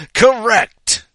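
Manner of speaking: high, loud exclamation; shouted verdict. Acted. Bow-tie man accepting contestant three's answer, shouting. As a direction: call it out like a quizmaster.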